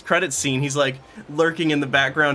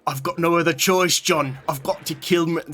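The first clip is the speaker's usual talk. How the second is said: attempted British accent. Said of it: "nail a British accent right now".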